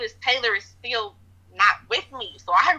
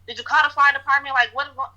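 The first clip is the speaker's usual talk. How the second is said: retold scream; 6 semitones higher than usual. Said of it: "I'm screaming at the top of my lungs".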